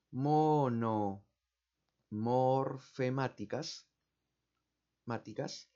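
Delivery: very slow, drawn-out dictation while writing; dictating slowly. Shown as a demonstration. Teacher writing the word on the board, drawn out syllable by syllable. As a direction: stretch out every syllable as you write it. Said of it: "aquí lo voy a escribir".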